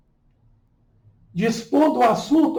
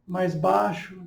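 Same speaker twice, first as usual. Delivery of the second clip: softer, dropped voice; lower voice; 3 semitones lower, 5 dB quieter than usual. Shown as a demonstration. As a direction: demonstrate dropping the voice softly. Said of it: "modificando o tom de voz, mais baixo".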